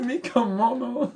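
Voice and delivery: high, very slow, laughing through mock Spanish. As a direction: join the joke in a silly Spanish voice.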